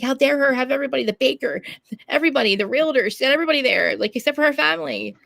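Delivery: loud, high indignant rant; retold ranting indignation; losing it. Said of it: "I was, like, losing it".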